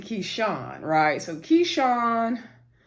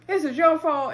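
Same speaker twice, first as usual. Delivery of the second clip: mock yelling; 8 semitones higher, 3 dB louder, slower than usual. Retold yelling at Derek.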